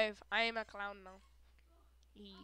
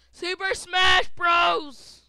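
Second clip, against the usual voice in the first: announcer call; 3 dB louder, slower than usual. Pretend. Announcing game title.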